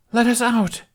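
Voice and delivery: high, loud command to the mist; a boy shouting a spell. Acted. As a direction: order the mist to open. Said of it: "Jamie commanded".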